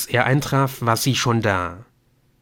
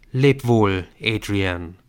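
father's farewell; 3 dB louder, slower than usual. Acted. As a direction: let go of the son tenderly. (ruhiger, sanfter Abschied des Vaters)

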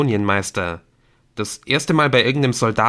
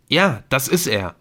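excited; 4 semitones higher, 3 dB louder than usual. Acted. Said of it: "rief Nick aufgeregt".

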